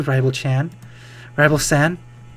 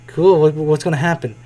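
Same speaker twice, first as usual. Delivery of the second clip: ordinary talk, nothing marked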